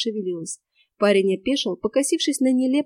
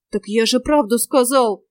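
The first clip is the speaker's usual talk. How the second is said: whining; 3 semitones higher, 5 dB louder than usual. Acted. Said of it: "заныл он".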